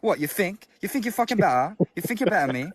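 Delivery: put-on street British accent. Explaining posh versus street british to friends, show it: street british accent. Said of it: "street British where it's like".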